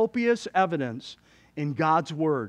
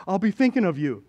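understated quoted remark, near usual pitch; lightly voiced churchgoer exchange. Realtor to churchgoing friend, lightly acted easy remark. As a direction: toss off the realtor's line lightly.

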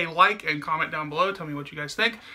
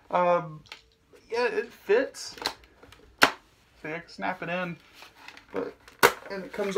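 muffled behind face shield; speaking inside full helmet; through a helmet. Real, not acted. Seen 1: Full-face helmet covers mouth throughout; removed around 17-18s.

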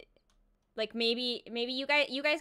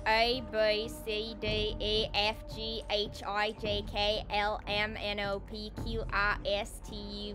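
put-on Australian accent; 4 semitones lower than usual. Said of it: "alphabet in Australian accents".

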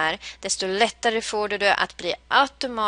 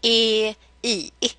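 vowel melody I E I; slower than usual. Shown as a demonstration. Teacher drills the vowel melody with learners. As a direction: chant the vowel tune down the steps. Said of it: "Nu kan vi det här".

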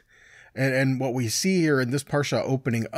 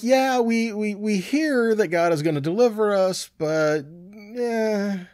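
higher, half-hearted mock agreement; doubtful crowd; 7 semitones higher, slower than usual. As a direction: say yes while not believing it. People doubting God's promise.

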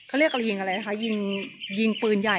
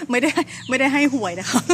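louder, higher, joking through laughter; laughing denial; 4 semitones higher, 6 dB louder than usual. Real, not acted. Guide tells viewers it's no lottery tip, laughing. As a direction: deny it while still laughing.

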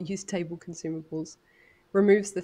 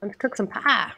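put-on light Texan accent; 3 semitones higher, 6 dB louder than usual. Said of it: "You almost sounded like you were native to Texas".

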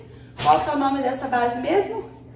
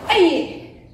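kiai shout; 4 semitones higher, 4 dB louder than usual. Shown as a demonstration. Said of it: "fazer o grito".

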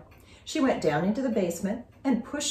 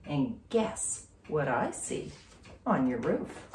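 lower, slow, softer, sly; mysterious teasing; teasing hint; 4 semitones lower, 5 dB quieter, slower than usual. Acted. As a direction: tease a secret. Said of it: "Denise said".

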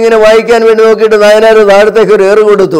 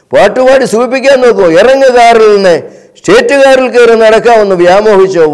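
roaring like a lion; 2 semitones higher than usual. Retold or imitated. Nayanar scolding the poet for losing the way, mock furious. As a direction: imitate the angry boss berating the poet, understated. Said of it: "സിംഹത്തെ പോലെ ഗർജിച്ചുകൊണ്ട്".

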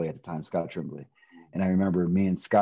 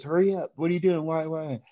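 a much higher mom voice, hurried; imitating mom; 10 semitones higher than usual. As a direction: pitch way up to play your mom on the phone. Mom voiced in story on phone.

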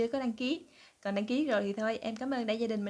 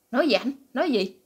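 startled question; 5 dB louder than usual. Retold or imitated. Startled wife asks.

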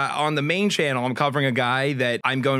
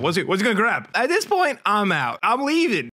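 jokingly bailing out in fright; mock panic; 6 semitones higher than usual. Real, not acted. Reacting as the driver heads for his trunk, high mock panic.

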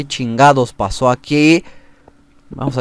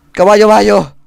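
calling out; 6 semitones higher, 7 dB louder than usual. Real, not acted. Calling his horse.

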